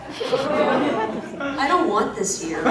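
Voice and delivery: slow, laughing protest. Real, not acted. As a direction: drag it out through a laugh. Audience offers silly noun.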